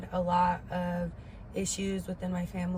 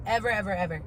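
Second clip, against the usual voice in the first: each ever hit louder and falling; "Ever, ever, ever" stamped out louder; emphatic repeat; 6 dB louder, faster than usual. Real, not acted.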